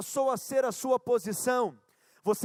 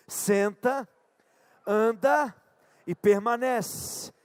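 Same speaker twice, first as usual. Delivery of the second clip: slow, weighty prophet's proclamation; 4 dB louder, slower than usual. Shown as a demonstration. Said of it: "Agora fala igual crente, com voz de profeta".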